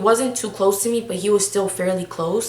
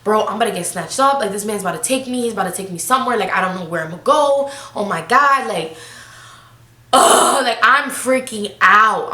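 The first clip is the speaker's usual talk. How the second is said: acting out mounting panic, louder toward the end; retold panic; 4 dB louder than usual. Retelling her fear of being snatched, mock panicking. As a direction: replay a freak-out, building to a loud groan. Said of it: "I'm pan-, panicking".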